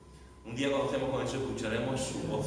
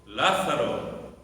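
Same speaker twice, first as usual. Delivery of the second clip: loud, drawn-out call of the name; 7 dB louder, much slower than usual. Acted. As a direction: call out to Lazarus, loud and slow. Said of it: "Jesús clamó a gran voz". (llamada en voz alta y alargada)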